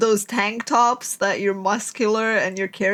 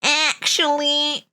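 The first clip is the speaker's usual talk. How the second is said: put-on smug boy; 5 semitones higher than usual. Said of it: "boy in the background going like".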